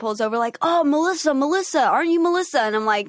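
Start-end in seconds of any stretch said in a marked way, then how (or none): 0.6-2.6 imitating the driver. Guy in car calling her Melissa.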